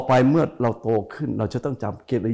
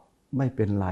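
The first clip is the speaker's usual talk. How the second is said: slow, soft forgiving phrase; gentle forgiving; 2 semitones lower, 4 dB quieter, much slower than usual. Shown as a demonstration. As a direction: draw it out kindly. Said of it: "อ๋อ คำว่า". (พูดช้าๆ นุ่มๆ อย่างให้อภัย)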